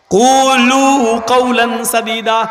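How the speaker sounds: slow chanted Arabic verse, drawn out; slow Quranic recitation. Acted. Preacher to congregation, slow solemn recitation. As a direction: intone the verse slowly and reverently.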